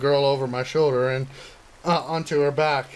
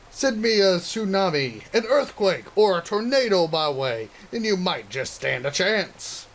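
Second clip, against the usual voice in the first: put-on high, cocky girl character; boastful girl voice; 4 semitones higher than usual. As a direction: brag it out like a tough girl. Narumi continues boasting.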